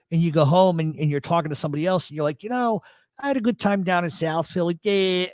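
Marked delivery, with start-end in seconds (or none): 2.4-5.3 South Philly vowels creeping in; South Philly accent. Retold or imitated. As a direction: imitate the picked-up Philly talk. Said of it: "I can't get rid of it".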